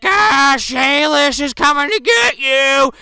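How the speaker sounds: high, loud, drawn-out menace; slow mock-threatening yell; hammed-up monster voice. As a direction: play a howling movie monster, slowly. Acting out Clint's monster line.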